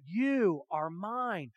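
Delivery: very slow and gentle; God speaking lovingly to his people; tender claim. Retold or imitated. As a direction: lay each word down like a promise. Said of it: "He said".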